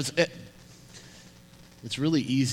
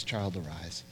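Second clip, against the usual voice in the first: lower, quieter repeat; softer gentle command; 7 semitones lower, 9 dB quieter than usual. Retold or imitated. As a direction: hush it tenderly.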